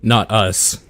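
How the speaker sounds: mildly grim reply; understated, grim in-character answer. Acted. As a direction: say it with a touch of grimness. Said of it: "I just kind of grimly say".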